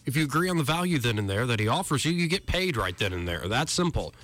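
lively sponsor read by the show's host; radio ad read. Real, not acted. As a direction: sell it like a local radio spot.

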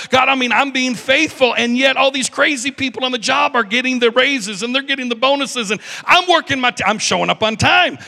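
high, loud indignant protest to God; exasperated complaint. Acted. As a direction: plead your case to God, loud and worked up.

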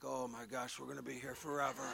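mock exasperated mutter, soft and fast; imitating a wife who knows they'll be stuck; exasperated aside. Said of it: "She's like".

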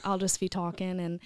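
Kentucky accent gradually thickening; Southern accent. Shown as a demonstration. Guest demonstrates the accent on request, Southern accent. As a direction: ease into a Southern twang, thicker as you go. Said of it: "can you say something with the accent".

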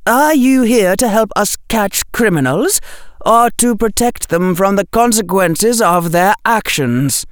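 high, pointed and accusing; hard challenging voice. A narrator's reading. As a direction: challenge him coldly. Amelia confronts Dumbledore.

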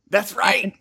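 high, put-on Texan twang; Western accent. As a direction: play along in a cowboy drawl. Joins in the Western voice.

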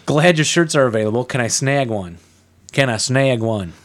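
lightly hammed-up Southern accent. Host reading a Texan's shirt order, Southern accent. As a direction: read it with a put-on Southern twang. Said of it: "my southern".

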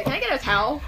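laughing at the understated request; amused repeat. Retold or imitated. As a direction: repeat the question through a chuckle. Repeats own line, laughing.

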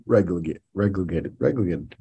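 "regulated" clipped to reg-lated, New York accent; New York accent slipping into "regulated". Real, not acted. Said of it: "That's my New York accent was coming out".

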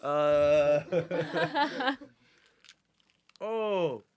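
talking while eating; words round a bite of macaron; mouth full. Real, not acted. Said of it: "You hear that crunch?".

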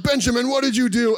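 a hint of a dad's high-pitched reproach; dismayed dad, retold. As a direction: lightly imitate a dad demanding an explanation. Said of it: "And my dad's like".

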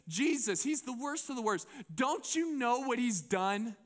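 upset protest. Retold or imitated. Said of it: "I can just imagine Peter being like".

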